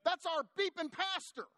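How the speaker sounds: high, drawn-out comic indignation; mock indignant. Waitresses defend their pastor to Chuck, mock indignant. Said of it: "waitresses there jump on Chuck".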